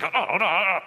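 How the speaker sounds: acted-out strangled "ah" sounds; mock choking noises. Preacher acts out grabbing a debtor by the throat, choking noises. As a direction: imitate someone choking in broken gurgles. Acting out choking someone for money.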